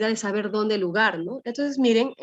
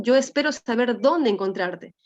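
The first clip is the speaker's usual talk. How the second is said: light emphasis on "dónde"; stress on DÓNDE. Shown as a demonstration. Teacher showing an accented word in a non-question, stressing "dónde". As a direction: lean gently on "dónde" within the statement. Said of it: "pero hay un énfasis ahí".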